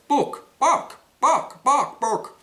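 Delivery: high, loud squawking bark bark; hammed-up chicken squawk. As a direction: cluck it out like a hen. Chicken speaking in joke.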